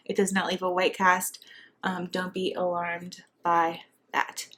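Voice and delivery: breathless while talking; short of breath, pregnant. Real, not acted. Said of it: "I'm sorry if I sound out of breath".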